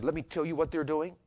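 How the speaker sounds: a mildly indignant imitation of grandpa's tirade; grandfather's retold anger. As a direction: play grandpa's grievance, leaning harder as it goes. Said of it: "My papa got so mad because he said".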